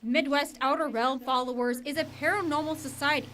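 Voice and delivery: measured TV reporter voice-over; scripted reporter read; news report narration. A narrator's reading. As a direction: narrate it as a local news package.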